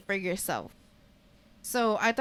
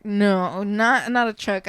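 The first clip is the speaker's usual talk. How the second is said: firm louder no; 6 dB louder, slower than usual. Real, not acted. Telling her sweetheart no truck, firm and louder. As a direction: say no louder and firmly. Firmly vetoes partner's truck idea.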